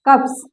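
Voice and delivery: कप्स with a crisp unvoiced s at the end; कप्स ending in a clean s, not z; demo s sound. Shown as a demonstration. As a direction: clip कप्स with a sharp hissed s. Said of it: "देखते हैं कैसे".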